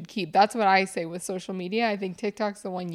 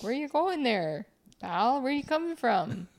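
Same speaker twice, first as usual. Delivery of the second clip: put-on Canadian accent; 4 semitones higher, slower than usual. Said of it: "They're like".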